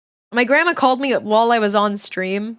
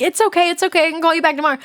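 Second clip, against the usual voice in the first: mock sweet reassurance; 6 semitones higher, much faster than usual. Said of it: "I'm already like".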